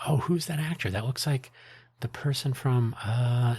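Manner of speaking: high-pitched mock puzzlement; puzzled movie viewer. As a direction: imitate a viewer straining to place an actor. Imitates puzzled movie reaction viewers.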